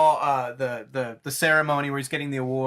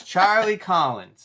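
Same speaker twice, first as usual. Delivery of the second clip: slow, higher, savouring the name; mock Joker reading the license; 5 semitones higher, 4 dB louder, slower than usual. Joker reading Charlie's license, slow and creepy. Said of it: "He goes".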